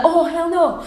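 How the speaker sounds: high-pitched mock outrage, not full volume; retold yelling. Yelling back at the neighbour in English, mock outraged yell. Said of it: "I was yelling and screaming in English".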